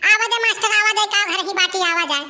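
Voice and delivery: sugary high welcome for the master; butter him up with a sweet high call; mock-respectful come-in-sir; fawning welcome. Suddenly fawning over the teacher.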